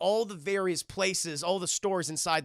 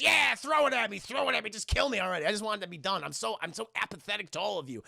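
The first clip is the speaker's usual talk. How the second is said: defeated referee; 3 semitones higher, faster than usual. Retold or imitated. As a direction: give up, begging them to finish it. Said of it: "He goes".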